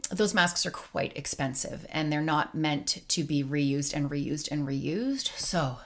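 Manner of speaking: breathless, winded talking; out of breath. Real, not acted. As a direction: speak short of breath, slowly. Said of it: "I'm out of breath".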